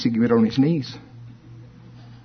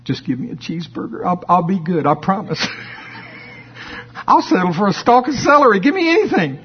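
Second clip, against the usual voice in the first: begging flesh; 3 semitones higher than usual. Retold or imitated. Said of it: "flesh begging".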